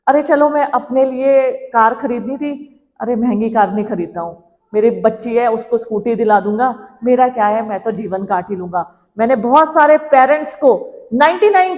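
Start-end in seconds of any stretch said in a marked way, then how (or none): 0.1-9.1 lightly voiced self-sacrificing parent. Parent thinking of the child first, in a lightly acted, resigned voice. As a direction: lightly play a parent setting aside their own wants. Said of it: "हमारे सबके बारे में सोचते हैं".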